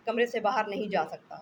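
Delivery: a sick husband loudly repeating on the phone; exasperated repeat. Acted. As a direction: hammer the point home. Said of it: "repeated louder".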